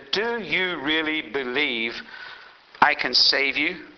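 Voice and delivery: deep voice of God. Retold or imitated. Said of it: "big, deep voice coming out of the sky".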